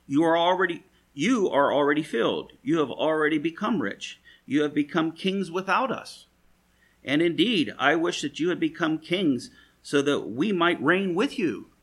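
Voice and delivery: Paul mocking the proud Corinthians with sarcasm. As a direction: lay the false flattery on thick. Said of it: "a little bit of sarcasm here".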